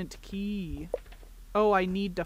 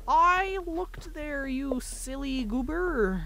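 playful teasing; 6 semitones higher, slower than usual. Real, not acted. Teasing the game character.

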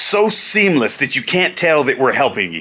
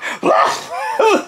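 very high acted gasp; winded gasp. Winded wrestler doused in drink and popcorn, imitated gasping. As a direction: gasp as if no air will come. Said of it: "I can't breathe".

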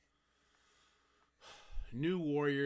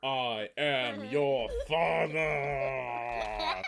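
loud, slow, booming villain voice with a laugh; Darth Vader joke; 7 semitones higher, 13 dB louder, much slower than usual. Pretend. Father hamming up a movie line to son named Luke, loud and slow. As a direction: boom it out like a movie villain revealing himself. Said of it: "For the one joke I'm gonna make".

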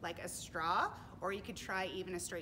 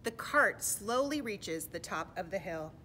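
slow, suspenseful climb; deliberate picture-book reading; storybook narration; 6 dB louder, slower than usual. A narrator's reading. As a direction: draw out the words as the cart creeps uphill. Reads storybook to children.

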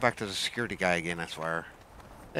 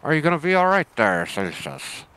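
calling out; 5 semitones higher, 9 dB louder than usual. Real, not acted. Calling to pet Celsius.

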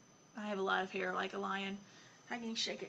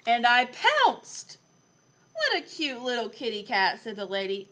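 put-on lively, expressive story reading for a young child; picture book reading; 8 dB louder than usual. A narrator's reading. Adult reading Lion Lessons to a child, animated storytelling. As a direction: read it aloud with playful emphasis.

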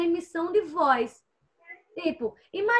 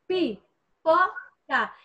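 "pipoca" stretched very slowly; slow syllables; much slower than usual. Shown as a demonstration. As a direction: draw out "pipoca" for the class. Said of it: "da palavra pipoca". ("pipoca" bem devagar, sílaba por sílaba)

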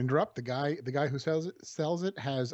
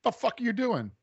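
high, loud French Canadian snarl; French Canadian accent; 9 semitones higher, 4 dB louder than usual. Retold or imitated. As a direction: bark it like an angry Quebecois. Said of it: "really good French Canadian accent".

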